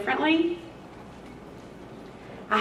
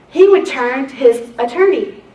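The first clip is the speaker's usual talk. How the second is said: normal talking voice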